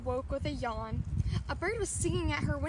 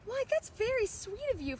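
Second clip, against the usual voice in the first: lightly raised, touched thanks; touched aunt; 7 semitones higher than usual. A narrator's reading. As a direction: thank her sweetly, a bit higher. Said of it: "Flora cried".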